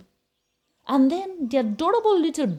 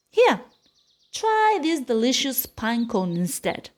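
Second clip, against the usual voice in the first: eager offer. Acted. Billy offering pine cone.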